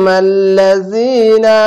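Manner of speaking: stretched tajweed reading of মাল লাযিনা with long vowels; slow Quranic chant; slow recitation. Shown as a demonstration. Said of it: "এক আলিফ টেনে পড়বেন".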